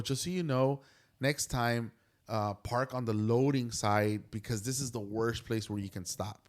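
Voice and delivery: low-key, casual advice; calm passing correction; matter-of-fact. Retold or imitated. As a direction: offer a polite heads-up, no edge. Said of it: "I said it just like that".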